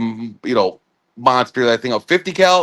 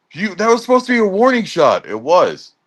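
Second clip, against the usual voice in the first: mock high voice; 12 semitones higher than usual. Mocking exchange about warning shot.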